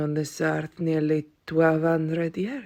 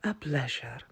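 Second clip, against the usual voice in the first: quiet, lower half-hearted greeting; muttered greeting; 4 semitones lower, 7 dB quieter than usual. Acted. Aunt first greeting the nephew's lady friend, muttered. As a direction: mumble it as if it's a chore.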